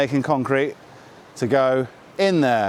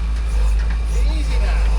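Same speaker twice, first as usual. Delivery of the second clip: calling out; 8 semitones higher, 6 dB louder, much slower than usual. Real, not acted. Calling out while carrying.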